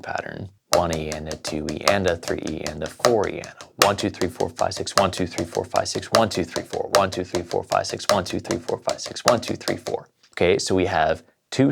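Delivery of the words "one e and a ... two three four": rhythmic count, hitting each "one"; counting accented groupings. Shown as a demonstration. Drum teacher counts sixteenth notes within the accent pattern, counting in rhythm. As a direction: count evenly in time, punching "one" to start each group. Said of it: "Let's try counting the sixteenth notes within that accent".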